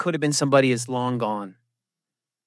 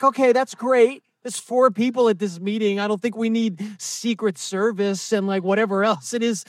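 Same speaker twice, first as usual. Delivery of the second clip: sarcastic; 5 semitones higher than usual. Retold or imitated. Sarcastic reply to boast.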